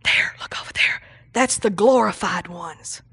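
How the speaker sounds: hushed, awed onlookers' whisper. Retold or imitated. People whispering to each other about the glorified ones, whispering. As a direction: whisper it like bystanders pointing someone out. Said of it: "they were standing over there whispering".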